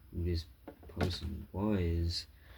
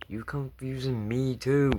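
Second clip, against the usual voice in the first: high, louder baffled reaction; confused outburst; 6 semitones higher, 4 dB louder than usual. Real, not acted. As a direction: sound truly confused.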